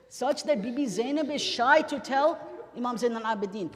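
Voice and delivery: building to a high, loud wail; anguished preaching cry. Real, not acted. Preacher telling mourners Abbas is gone, anguished cry. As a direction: cry out the loss at full force.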